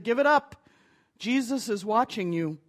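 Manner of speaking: a touch of a spooky voice from the dark; eerie disembodied voice. Acted. Voice in the dark warns the burglar, lightly spooky. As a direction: call out of the dark like an unseen warning. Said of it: "disembodied voice echoed from the dark".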